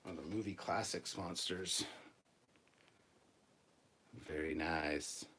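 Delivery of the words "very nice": whispering. Real, not acted. Admiring a figure, whispered.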